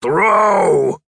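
loud, high shout; shout into the wind. A narrator's reading. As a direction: bellow it over the wind. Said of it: "Gripper shouted into the wind".

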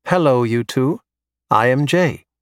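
put-on lightly tinny, old movie robot; a hint of a tinny droid. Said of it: "with a tinny voice reminding me of old Star Wars movies".

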